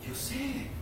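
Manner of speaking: soft, hushed unbothered reply; God quietly brushing off the panic; calm God. Acted. God answers the impatient believer, hushed and calm. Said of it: "Dios no se pone a gritar".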